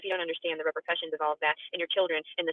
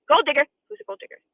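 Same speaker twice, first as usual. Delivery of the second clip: mock outraged shout; 7 semitones higher, 6 dB louder than usual. Mocks an accusation from the chat.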